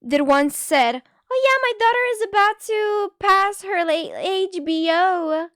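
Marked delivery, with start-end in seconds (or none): 1.3-5.5 imitating a mom. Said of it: "There was this one mother that once said".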